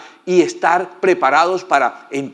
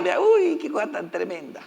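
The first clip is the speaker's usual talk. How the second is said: mock surprise; 5 semitones higher, 5 dB quieter than usual. Reacting to the soldiers.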